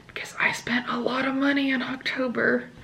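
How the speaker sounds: sheepish hushed admission; soft guilty aside; whispered confession. Real, not acted.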